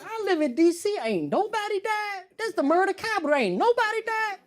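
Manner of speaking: high exasperated disbelief; hammed-up petty outrage; petty complaint.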